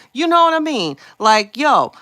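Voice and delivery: high loud outburst; loud exclaiming. Real, not acted. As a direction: let it burst out. Worked-up rant peak.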